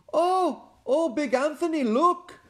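high, urgent cry of a sister; alarmed nun. Acted. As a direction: squeal it out in alarm. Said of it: "a sister from the convent said".

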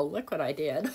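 laughing through the words; amused dismay. Real, not acted. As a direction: chuckle at your own blunder. Laughing at her mistake.

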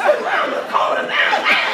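put-on a scared young man can't believe what he heard; shocked echo. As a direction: echo the words in a high, alarmed squeal. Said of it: "repeats the guide's words".

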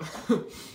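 short breath of laughter. Real, not acted. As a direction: let out a quick little laugh. Laughs after apologizing. (risita corta)

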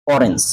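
অরেঞ্জ opening on a rounded "aw"; initial O sound. Shown as a demonstration. Teacher showing the first vowel, অরেঞ্জ begun on অ. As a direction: start অরেঞ্জ with a clear অ vowel. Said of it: "অ উচ্চারণ হয়েছে".

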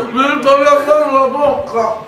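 high, laughing outcry; laughing shout. Real, not acted. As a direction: cry out through laughter. Ice forced into his mouth.

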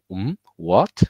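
puzzled what with a rising tune; 疑问的语气; doubtful question. Shown as a demonstration. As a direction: sound unsure, questioning. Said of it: "think about you are making a question".

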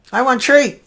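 put-on cute kid. Host mimicking a kid that makes everybody giggle, cute child voice. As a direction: imitate a child's cute mispronunciation. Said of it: "when a kid says it's so cute".

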